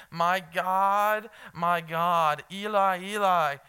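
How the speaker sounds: mild, loud cry to God; personal cry. Acted. Pastor voices the psalmist calling on God, personal cry. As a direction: call out to God with feeling. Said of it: "there's a very personal cry".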